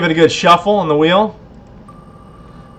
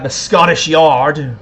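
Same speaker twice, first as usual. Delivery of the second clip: slightly Scottish, drawn out; a half-hearted stab at a Scottish accent; terrible Scottish accent; much slower than usual. Acted. Host jokingly naming the Scottish Yard, terrible Scottish accent. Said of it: "That was a terrible Scottish accent".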